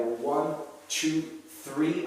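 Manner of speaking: counting with breath held in; strained count on a held breath; holding breath. Real, not acted. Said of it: "I'm holding my breath".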